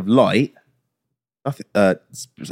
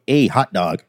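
lower-pitched put-on American accent; imitation American accent, pitched down; mock American accent; 4 semitones lower, slower than usual. Shown as a demonstration. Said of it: "to do American accent".

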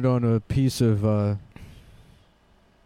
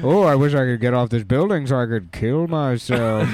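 gargoyle voice; 4 dB louder than usual. Pretend.

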